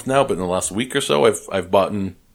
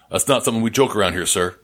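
a hint of stern, fast Southern seriousness; quick, deadpan warning; mock serious. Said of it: "looked at me very seriously".

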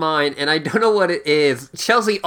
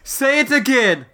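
outraged British dad; 8 semitones higher, slower than usual. Acted. Father demands British word.

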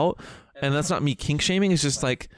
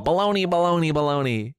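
a lightly voiced drag queen "Baloney"; a hint of Bianca Del Rio's catchphrase; Bianca Del Rio impression; 2 semitones higher than usual. Quoting a drag queen to her cohost, light impression. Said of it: "seen Bianca Del Rio go".

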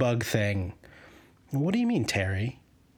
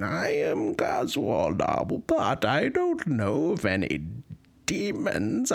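lightly voiced Coswald. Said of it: "being Coswald".

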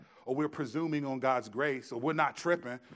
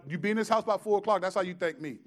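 annoyed mom; 5 semitones higher, 6 dB louder, faster than usual. Retold or imitated. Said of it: "mom's reply".

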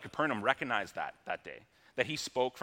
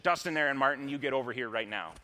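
mom's shout; 2 semitones higher, 4 dB louder, faster than usual. Retold or imitated. Mother calling her boys to come right now, mock shout. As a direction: summon the kids like an exasperated mom. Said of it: "my mom used to shout".

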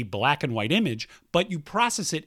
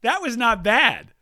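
pleasantly surprised; 5 semitones higher, 3 dB louder than usual. Real, not acted. Repeats pleased verdict on own accent.

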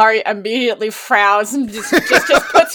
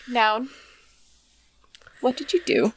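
quiet accusing; 7 dB quieter than usual. Acted. Bahari voiced.

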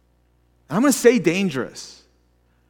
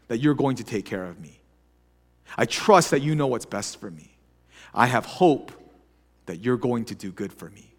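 trusting prayer; 3 semitones lower than usual. Shown as a demonstration. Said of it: "praying from a trusting heart".

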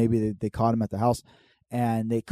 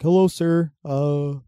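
higher-pitched, hesitant mock-polite voice; crackhead pleading; 4 semitones higher than usual. Crackhead asks dad for his stuff, higher pleading impression. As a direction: imitate a crackhead asking for his things back. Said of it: "Crackhead comes back".

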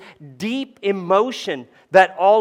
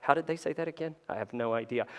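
mock confusion; 12 dB quieter, faster than usual. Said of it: "you'll be like".

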